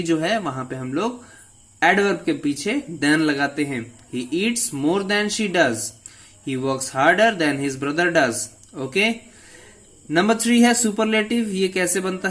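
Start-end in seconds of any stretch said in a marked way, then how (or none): 4.1-8.3 slow example read. Shown as a demonstration. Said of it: "teacher reads example sentences".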